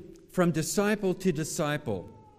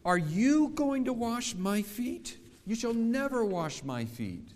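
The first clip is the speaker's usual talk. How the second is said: blurted out; 7 semitones higher than usual. Acted. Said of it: "Peter blurted out".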